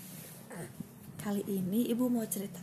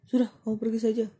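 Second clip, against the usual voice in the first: dismissive; 6 dB louder, much faster than usual. Acted. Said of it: "kata singa".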